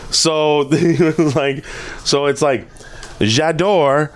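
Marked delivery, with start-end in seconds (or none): 3.2-4.1 slow put-on French accent; mock French class delivery; fake French. Shown as a demonstration. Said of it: "That's not French at all".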